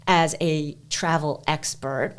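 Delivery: slow, dry self-mockery; sarcastic. Real, not acted. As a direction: draw the title out in mock self-importance. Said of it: "I'm saying that sarcastically".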